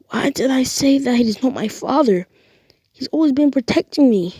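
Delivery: high whisper rising into a pained cry; guilty whisper. Acted. Deku blaming himself over his uncle's body, anguished whisper. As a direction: whisper the regret, then break.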